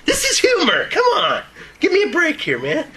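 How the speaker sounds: high, laughing exclamation; amused, high-voiced protest; laughing plea. Real, not acted. Joking plea after laughs from room.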